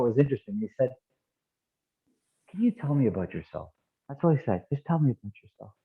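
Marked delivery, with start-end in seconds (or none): 2.5-3.7 soft, gently curious question; quiet, easy invitation to open up; nice and calm. Retold or imitated. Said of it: "A nice, calm way". 4.7-5.7 easy, unthreatening request; nice and calm. Retold or imitated. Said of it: "A nice, calm way".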